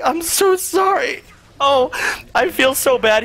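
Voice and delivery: very high, drawn-out whiny apology; imitated tearful squeak; mock crying. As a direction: wail the apology like a hammed-up sob. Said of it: "I start crying".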